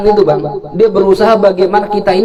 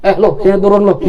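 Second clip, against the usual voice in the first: mock bravado. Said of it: "Saya belaga-laga aja".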